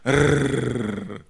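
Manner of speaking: rolled rrr like a motor; imitated car engine. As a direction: trill out a car driving off. (tiruan deru mesin mobil)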